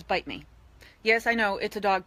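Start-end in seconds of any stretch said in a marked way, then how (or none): 0.0-0.5 hot dog voice. Pretend. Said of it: "he says".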